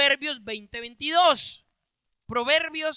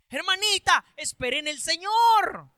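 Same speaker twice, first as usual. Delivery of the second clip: firm pastor reply; 5 semitones higher, 4 dB louder than usual. Acted. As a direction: insist kindly but loudly. Pastor answers the sister.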